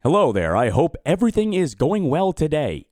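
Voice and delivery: slow, deliberately careful reading; slow down so the speech test can follow. Shown as a demonstration. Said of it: "Was that better?".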